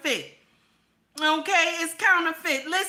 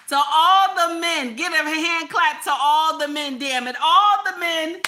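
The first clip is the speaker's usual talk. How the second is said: louder, stretched-out call for applause; rally the crowd, leaning hard on each phrase; emphatic rallying call; 4 dB louder than usual. Real, not acted. Streamer demands applause from viewers, emphatic rallying call.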